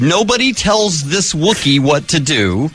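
slow hammed-up yell; mock Wookiee shout. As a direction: bellow it slowly like an angry costume Wookiee. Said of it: "He used these words".

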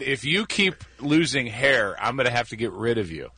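put-on light Australian accent as the boss; quoting the boss with an Australian accent. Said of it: "I'm doing an Australian accent".

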